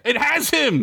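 high, strained cry of alarm; Gunk. A narrator's reading. Gunk grabbing for Duncan, alarmed high cry. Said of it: "Gunk said".

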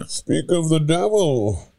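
calm menace; Bane. Shown as a demonstration. Bane announcing his arrival, calm masked menace.

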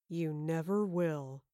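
slow, low cruel murmur; menacing low taunt. A narrator's reading. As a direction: breathe it in her face, slowly. Villain's final taunt, close.

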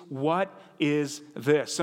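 What is this? spelled out slowly and evenly; deliberate, slowed-down gloss; slow translation. Shown as a demonstration. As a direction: lay out the meaning word by word, slow. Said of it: "the Hebrew for manna literally means".

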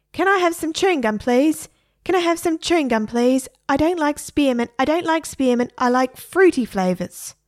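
high, squawky parrot begging for gum; a parrot pestering for chewing gum, high and insistent. A narrator's reading. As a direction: pitch it way up like a parrot nagging. Parrot voiced whining for gum.

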